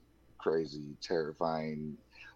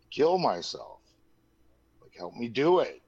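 retold yell; 5 semitones higher, 4 dB louder than usual. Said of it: "I was yelling".

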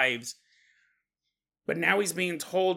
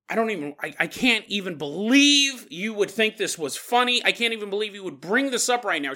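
acted indignant disbelief, raised pitch; super pissed; 3 semitones higher than usual. Tammy scolding Miles for bringing this up, angrily. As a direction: play an offended friend building up her outrage. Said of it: "She's getting super pissed".

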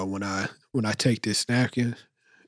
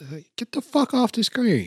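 annoyed; 11 semitones higher than usual. Retold or imitated. Annoyed at flies on screen.

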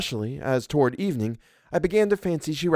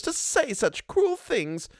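high, slow, distressed housekeeper; crying out; slower than usual. A narrator's reading. Housekeeper protests to governess, distressed. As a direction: cry out against cruel words. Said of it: "cried Missus Gross".

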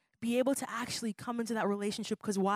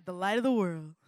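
louder group declaration; call-and-response; 5 dB louder than usual. Shown as a demonstration. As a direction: lead the room in saying it. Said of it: "So everybody say it again".

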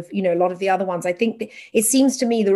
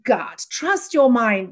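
slow, calm, encouraging; gentle trust-yourself reading; reassuring advice; 2 semitones higher, slower than usual. Retold or imitated. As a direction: soothe a new mother. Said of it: "whereas had it said".

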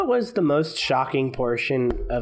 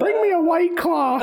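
much higher shouted monkey voice; drunk monkey shout. Pretend. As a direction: bellow for a drink.

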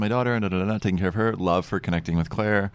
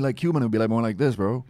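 put-on Cuban accent. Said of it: "say it in a Cuban voice".

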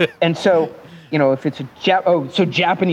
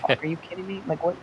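incredulous; 3 semitones higher, 8 dB quieter, faster than usual. Retold or imitated. Acting out disbelief at interpreter.

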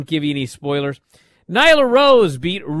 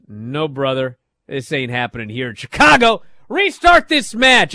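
retold referee shout; 5 dB louder than usual. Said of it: "The ref goes".

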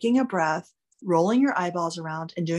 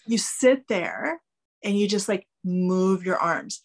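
slow demo; slower than usual. Shown as a demonstration. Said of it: "my patented breaststroke move".

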